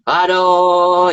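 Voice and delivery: drawn-out aduh of exasperation; exasperated sigh-word. Acted. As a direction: groan it like a frustrated guide. Exasperated about voice control.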